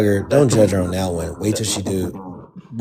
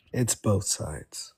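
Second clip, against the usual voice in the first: mock MAGA line; 12 dB quieter, much slower than usual. Repeats MAGA line mockingly.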